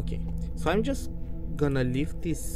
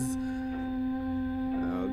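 startled gasp; 10 semitones higher, 6 dB quieter than usual. Real, not acted. Creepy lady appears in game.

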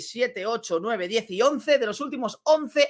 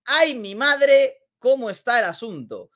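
mock alarm; 3 semitones higher, 4 dB louder than usual. Mock alarm at tight standings.

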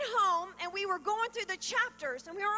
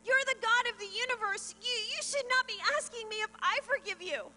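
raised, incredulous objection; retold protest; 5 semitones higher than usual. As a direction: push back at God, voice pitched up. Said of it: "I shook my head and I said".

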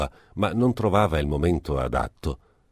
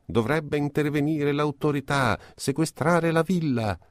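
raised, higher shout from an angry neighbour; 9 semitones higher than usual. A narrator's reading. Neighbour shouts in the quarrel, raised and high. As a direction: call out to the crowd for the authorities. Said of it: "gridava uno".

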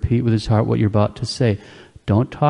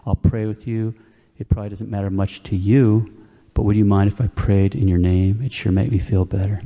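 gentle invitation; 2 semitones lower than usual. Shown as a demonstration. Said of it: "say something like".

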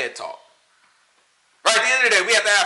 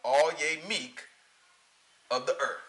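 gets all quiet; 5 semitones lower, 7 dB quieter than usual. Retold or imitated. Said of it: "Get all quiet again".

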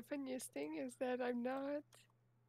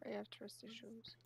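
whispering; 7 dB quieter than usual. Real, not acted. Hushed aside.

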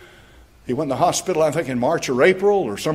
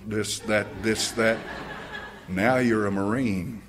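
solemn tribute; 4 semitones lower, 4 dB quieter than usual. Retold or imitated. Instructor's last-night tribute, retold.

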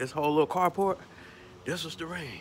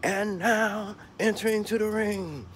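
slow, building announcer call; lightly hammed wrestling introduction; ring announcer. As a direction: announce the challengers with big pauses. Announcing challengers wrestling style.

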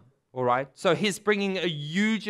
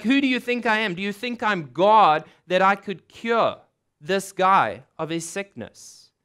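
frustrated, angry; 2 semitones higher, 3 dB louder than usual. Acted. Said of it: "Frustrated, angry".

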